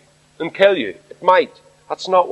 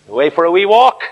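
berating mockery; 4 dB louder, faster than usual. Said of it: "You can hear him berating them".

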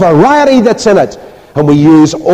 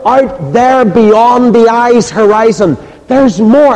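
preached proclamation; 2 semitones higher, slower than usual. Acted. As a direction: ring it out to the hall, slowly. Preacher repeats quote to congregation.

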